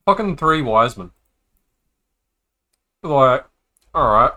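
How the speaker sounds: lightly put-on Australian accent for the wise men; a hint of a rough Aussie bloke telling the nativity; full Aussie. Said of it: "Going full fucking Aussie".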